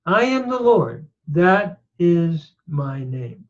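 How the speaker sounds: I am the Lord, then that is my name drawn out slowly; solemn scripture reading. Shown as a demonstration. Teacher reading the verse aloud, solemn and slow.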